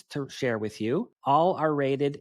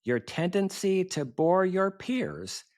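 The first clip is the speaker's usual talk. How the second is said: poem recitation. Acted. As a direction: recite comic verse with swooping cadence and pauses. Recites own poem at symposium.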